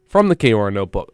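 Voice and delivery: brisk, even station notice; radio announcement read. Real, not acted. Radio host to the campus community, announcement read.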